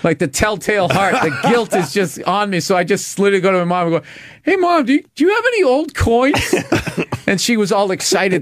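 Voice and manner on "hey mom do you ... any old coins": high, sweet fake-innocent kid asking mom. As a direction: play the sneaky kid, all innocence.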